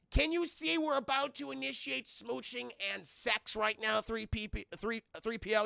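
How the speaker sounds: hammed-up frustrated demand; acted exasperation. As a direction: scold the intruder in mock annoyance. Acts Han annoyed at interruption.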